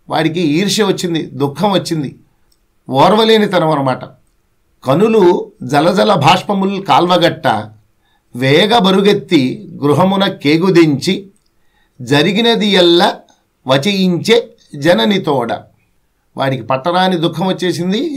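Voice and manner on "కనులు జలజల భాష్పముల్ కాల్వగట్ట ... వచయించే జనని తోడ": poem recitation. Acted.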